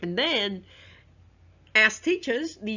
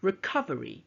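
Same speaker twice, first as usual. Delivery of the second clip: "recovery" with COV stressed, then falling; "recovery", punching its second syllable. Shown as a demonstration. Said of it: "on the second syllable".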